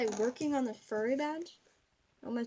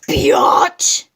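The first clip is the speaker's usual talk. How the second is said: breathy cheeky whisper; whispered insult; 18 dB louder than usual. Acted. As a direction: hiss it as a naughty aside. Silly aside after outburst.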